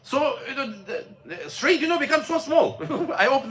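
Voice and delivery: laughing through the words. Real, not acted. Telling friends about the narrowing street, laughing. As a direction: chuckle while telling it. Laughing at own driving story.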